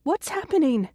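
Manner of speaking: high-pitched questioning call. A narrator's reading. Connie from down the hall, calling out. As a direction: call out to find out what's wrong. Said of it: "Connie calls out from down the hall".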